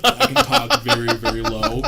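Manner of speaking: loud put-on deep voice; deep guy voice. Shown as a demonstration. Showing friends the prank-call voice, deep guy voice. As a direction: show off a mock man's low voice. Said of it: "a deep guy voice".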